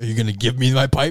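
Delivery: annoyed, angry, insistent character voice. Voicing a big, angry man whose bike was knocked over: angry Big Chain Billy voice. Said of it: "as Big Chain Billy".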